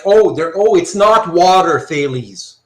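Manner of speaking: mock indignant rebuttal.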